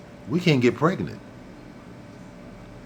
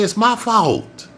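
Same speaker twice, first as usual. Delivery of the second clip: slow, stress on my; emphatic confession; 9 semitones higher, much slower than usual. Shown as a demonstration. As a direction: drag out "It's MY fault" slowly.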